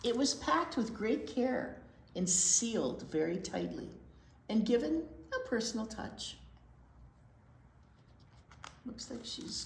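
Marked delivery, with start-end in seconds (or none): 0.0-6.4 steady storytime read-aloud voice; gentle storybook narration; picture book reading. Acted. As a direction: read it to the little ones, clearly.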